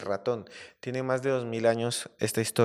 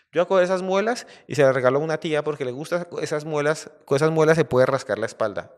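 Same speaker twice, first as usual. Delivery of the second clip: boastful hunters, higher and louder; gloating hunters; 4 semitones higher, 3 dB louder than usual. Acted. Hunters gloat to each other about the trapped lion, boastful. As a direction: crow over the catch like rough hunters.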